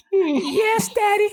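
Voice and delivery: high, meek put-on girl's voice; mock girl's voice. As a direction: squeak it out like the pimp's girl. Voicing the woman in the pimp sketch.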